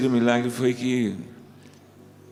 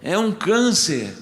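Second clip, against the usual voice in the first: higher, drawn-out mock cry; retold shout; 8 semitones higher, slower than usual. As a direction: cry it out high and slow, imitating an alarm. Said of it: "pessoas gritam no seu ouvido assim". (grito imitado, agudo e arrastado)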